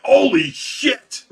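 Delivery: high, loud, drawn-out exclamation; shocked yell. Retold or imitated. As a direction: re-enact a startled outburst, slowly stretched. Re-enacting his shock at the fish.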